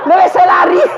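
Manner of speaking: high panicked jinn, laughing. Retold or imitated. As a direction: stammer in panic and run. Jinn fleeing the nagging wife.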